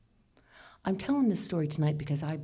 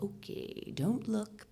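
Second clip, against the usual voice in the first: hushed warning to self; 4 semitones higher, 6 dB quieter, slower than usual. Retold or imitated. Telling herself not to look.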